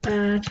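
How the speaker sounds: "Abarcar" as a, bar, car with long pauses; split into syllables. Shown as a demonstration. Teacher dividing a word as written, pauses inside "Abarcar". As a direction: leave clear gaps between the syllables of "Abarcar". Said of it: "La sílaba tónica es la última".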